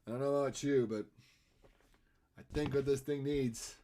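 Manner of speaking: lightly voiced odd, halting delivery; a hint of an odd-speaking actor impression; Christopher Walken. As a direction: do a light cowbell-sketch impression. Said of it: "talking about Christopher Walken a minute ago".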